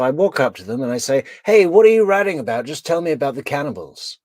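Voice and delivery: fast, high, mock eager; fake eager voice. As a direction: play the fawning charmer. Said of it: "I just pick it up".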